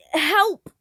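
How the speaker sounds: scream for help. A narrator's reading. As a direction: call out desperately. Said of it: "he screamed".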